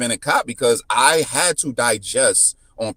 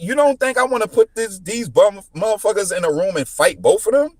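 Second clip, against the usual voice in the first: high, raised frustrated rant; mock frustrated outburst; 10 semitones higher than usual. Speaker venting about the troopers, frustrated outburst. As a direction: vent like you'd love to fight them. Retold anger at the cops.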